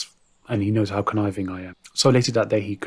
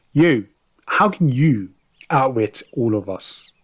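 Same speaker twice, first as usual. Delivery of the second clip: stunned; 3 semitones higher, 5 dB louder, slower than usual. Acted. Ruler stunned by the confession.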